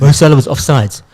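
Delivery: put-on Afrikaans bloke accent. Mimicking a colleague's complaint about the match in an Afrikaans accent. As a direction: imitate him with an Afrikaans accent. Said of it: "That's an Afrikaans accent".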